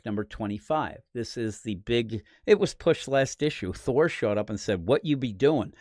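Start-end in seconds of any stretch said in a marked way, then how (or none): 4.9-5.7 lightly put-on Asgardian accent; a hint of joke Asgardian accent; mock Asgardian accent. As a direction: try a casual, half-hearted Asgardian accent. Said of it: "that is my Asgardian accent".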